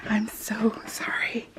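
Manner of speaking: very soft, slow apology; half-whispered retold sorry; sheepish apology. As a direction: shrink into a guilty little apology. Mom's apology, retold amid laughs.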